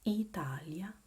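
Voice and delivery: Italia said carefully, "ee-TAH-lya"; pronunciation model. Shown as a demonstration. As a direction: model Italia for a learner to repeat. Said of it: "Say it with me".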